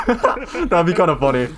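laughing. Real, not acted. Laughing at the suggestion.

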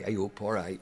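brief mock Barnsley accent; a touch of broad Yorkshire. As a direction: imitate a Barnsley greeting. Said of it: "sort of Yorkshire accent".

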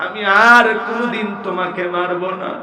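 a son begging through tears, lightly acted; tearful pleading. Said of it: "হাউমাউ করে কাঁদে আর বলে".

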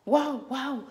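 high, loud barking; dog bark. Acted. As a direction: yap like a small dog. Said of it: "Seguía ladrando Bizcocho". (ladrido agudo y fuerte)

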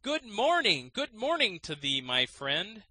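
high, loud call from inside a sack; cried out. A narrator's reading. Man in the sack hails the student, loud and high. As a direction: call out cheerily to a passerby. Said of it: "he cried out".

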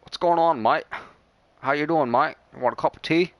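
attempted British accent. Streamer trying for Scottish, lands on a British accent. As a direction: try a casual British accent. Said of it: "isn't that British".

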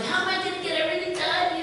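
panicky self-quote. Retold or imitated. Preacher recalling a busy week, panicky. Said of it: "and I'm like".

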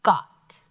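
got said loud and clear for sounding out; sounded-out word. Shown as a demonstration. Teacher sounding out got for the class. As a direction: stretch the short o in got. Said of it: "This word".

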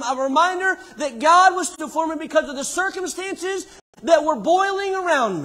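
high, loud preacher's cry, climbing to a shout; full-force preaching. Real, not acted. Preacher recounting his plea to God, impassioned shouting. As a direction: drive it home at full volume.

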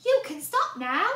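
put-on high, firm boy voice; boy telling pot to stop. A narrator's reading. Boy telling the pot to stop, high and firm.

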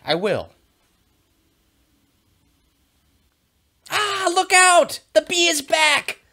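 high, loud, panicky cartoon dog; excited dog Murphy. Teacher reading Murphy for students, high and frantic. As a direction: play the frantic dog, yelling and squealing. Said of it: "I will be the character Murphy".

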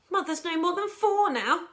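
high, loud cry of alarm. A narrator's reading. Daughter seeing her mother turn four, crying out. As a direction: cry out in dismay. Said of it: "Missus Bucket cried out".

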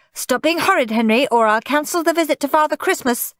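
high, cross mother's shout; exasperated mum at full scold; shouted threat. A narrator's reading. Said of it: "shouted Mum".

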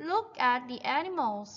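very slow, stretched-out sentence; model reading for repetition. Shown as a demonstration. Teacher reads the farm text for children to repeat, slow model reading. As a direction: read it out slowly, word by word. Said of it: "Repeat after me, guys".

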